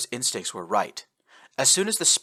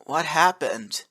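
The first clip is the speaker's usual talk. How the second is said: groaned; 6 semitones higher, slower than usual. Acted. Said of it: "Eno groaned".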